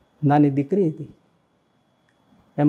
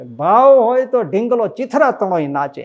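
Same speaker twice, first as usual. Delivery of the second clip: raised, louder bard-style recitation of the saying; bard's sing-song way; 6 semitones higher, 5 dB louder than usual. Retold or imitated. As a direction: declaim it like a village bard, pitch up. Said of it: "એ બારોટ એની રીતે કહેતા".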